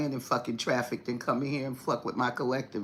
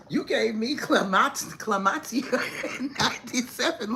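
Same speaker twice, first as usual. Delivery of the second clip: imitating angry man; 6 semitones higher than usual. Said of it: "came in screaming through the door".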